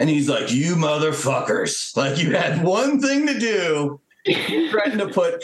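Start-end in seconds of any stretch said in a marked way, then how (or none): 0.5-4.0 angry commander. Retold or imitated. Angry commander chewing them out.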